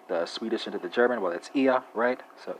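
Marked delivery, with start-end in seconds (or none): 1.5-1.8 "ia" said "EE-uh", higher, no R heard; sounds like an E. Shown as a demonstration. Teacher giving German speakers their pronoun, "ia" as ee-uh. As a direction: say "ia" with a long ee, ending in uh. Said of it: "sounds as if there's a E".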